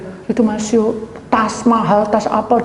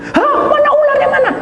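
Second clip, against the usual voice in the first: very high, loud frightened yelp; startled panic; 6 dB louder than usual. Retold or imitated. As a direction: jump at the thought of a snake, voice shooting up. Startled at snake on her leg. (kaget ketakutan, suara melengking tinggi)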